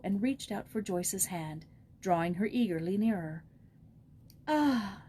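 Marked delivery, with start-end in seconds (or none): 4.5-5.0 put-on old woman crying out. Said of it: "she cried".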